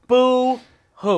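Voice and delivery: boo-hoo through a laugh. Pretend. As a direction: laugh while mocking the crybabies. Mocking, laughing.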